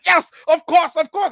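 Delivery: high, loud and eager imitation; delighted mock exclaiming; excited impression. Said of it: "this man was excited".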